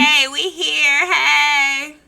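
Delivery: slow, loud call; loud mock greeting. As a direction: call it out like an entrance.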